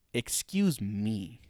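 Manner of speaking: drawn-out, offended Excuse me; slow haughty excuse me. Retold or imitated. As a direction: drag out Excuse me like a snooty company. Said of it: "says Square Enix".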